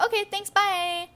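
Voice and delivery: high-pitched quick sign-off; hurried mock phone call. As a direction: toss off a high, chirpy goodbye. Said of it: "that went in all fast motion".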